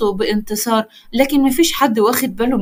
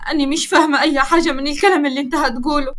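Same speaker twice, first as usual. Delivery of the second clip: shocked; 3 semitones higher, faster than usual. Acted. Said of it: "سهر بصدمة".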